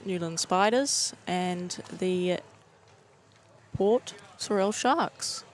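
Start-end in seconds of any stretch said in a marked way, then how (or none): 3.8-5.4 "Port Sorell Sharks" said slowly in a New Zealand accent; careful, slow Kiwi accent on "Port Sorell Sharks". Real, not acted. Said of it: "am I saying that wrong with my Kiwi accent?".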